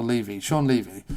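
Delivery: "Levy" said LEE-vee, with a long ee; alternative pronunciation. Shown as a demonstration. Host offering another way to say the surname, "Levy" as LEE-vee. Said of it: a line from a song.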